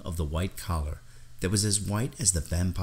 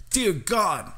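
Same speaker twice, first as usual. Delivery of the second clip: high-pitched, awed gasp of words; stage-whispered shock, pitched way up; shocked exclamation; 14 semitones higher, 3 dB louder than usual. A narrator's reading. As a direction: gasp it out in horrified awe. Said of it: "he whispered".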